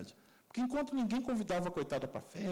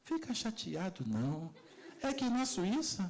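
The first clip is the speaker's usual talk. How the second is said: slow, kind explanation; consoling teacher; much slower than usual. Retold or imitated. Teacher consoling a sheepish student, slow and kind. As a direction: slowly soothe the boy. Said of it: "ela virou pra mim assim".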